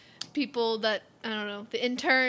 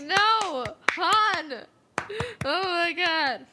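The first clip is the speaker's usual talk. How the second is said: crying out; 4 semitones higher, 4 dB louder, much slower than usual. Retold or imitated. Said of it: "Like, I'm just crying".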